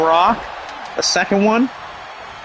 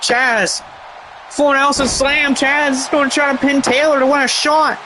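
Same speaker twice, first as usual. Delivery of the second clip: excited; 7 semitones higher than usual. Real, not acted. Near-fall excitement in commentary.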